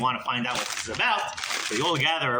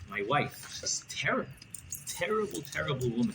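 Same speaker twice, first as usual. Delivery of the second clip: whisper; 6 dB quieter than usual. Acted. Tadris confides secret to Rebbe.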